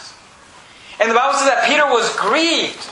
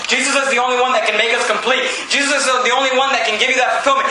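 quickening; faster than usual. Shown as a demonstration.

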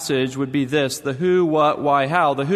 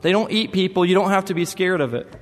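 put-on higher, earnest little boy explaining; voicing his son; 4 semitones higher than usual. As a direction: play a small boy reassuring his sister. Son reassures sister.

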